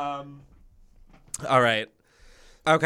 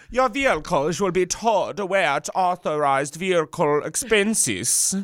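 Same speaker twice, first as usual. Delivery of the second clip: put-on German accent; 3 semitones higher, slower than usual. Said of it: "do a German accent".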